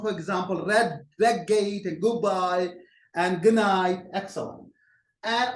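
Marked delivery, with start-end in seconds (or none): 1.2-4.1 "red gate", "goodbye", "good night" with each d blended into the following sound; assimilated sounds. Shown as a demonstration. Teacher giving examples of assimilation, the d in "red gate", "goodbye", "good night" changed to match the next sound. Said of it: "they would change some sound".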